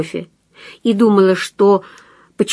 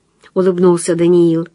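ordinary delivery

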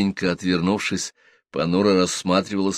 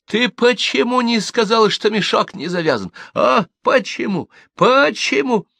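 angry accusation. Acted. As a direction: lash out at her. Аркадий набрасывается с криком. (высокий злой крик)

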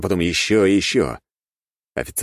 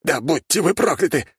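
cursing; 12 semitones higher than usual. A narrator's reading. Cursing after brother's death.

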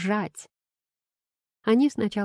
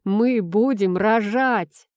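louder, slow, stretched out; joyful shout; 3 semitones higher, 4 dB louder, slower than usual. Acted. Husband shouts the pregnancy news to wife, slow and loud. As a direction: yell it out with delight. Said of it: "а потом ору".

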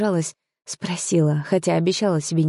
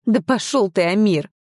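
higher, sharper angry bark at him; angry snap; 3 semitones higher than usual. A narrator's reading. Heroine snapping at Amir again, angry bark. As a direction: throw the insult in his face. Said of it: "рявкнула снова я".

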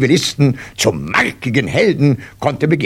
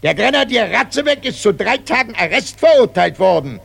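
high, loud parade-ground proclamation; loud announcement; 7 semitones higher than usual. Acted. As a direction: announce it to the whole company. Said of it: "mit lauter Stimme zu verkünden".

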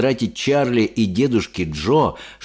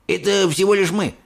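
amazed grandpa asking; old man in disbelief; lightly voiced old grandpa; 10 semitones higher than usual. A narrator's reading. Grandpa Joe. (изумлённый дедушка Джо)

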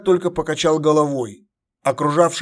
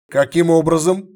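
curt; 2 semitones higher, 5 dB louder than usual. Acted. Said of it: "отрывисто спросил император".

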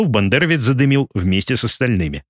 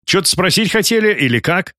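higher-pitched, mildly guarded asking; wary question; 7 semitones higher than usual. A narrator's reading. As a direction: ask strangers with a touch of caution. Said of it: "настороженно спросил он". (слегка настороженный вопрос)

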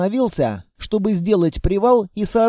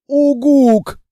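higher, louder beast hoot; loud creature hoot; 7 semitones higher, 6 dB louder than usual. Acted. The monster reacts to the girl's news with a loud hoot. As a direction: hoot in surprise.

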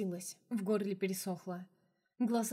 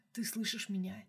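whisper. Acted. Vlad whispers to dying Anna.

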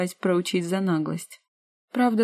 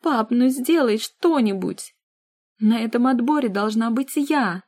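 slow, higher, loud whining shout; 5 semitones higher, 4 dB louder than usual. Acted. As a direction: yell for the whole house. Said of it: "как сестра кричит на весь дом".

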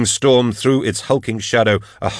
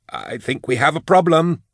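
high, rising note of horror; horrified alarm; 8 semitones higher than usual. A narrator's reading. Thonius spots the approaching threat at the archway, horrified. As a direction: pitch it up as you recoil in horror. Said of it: "Thonius recoiled in horror".

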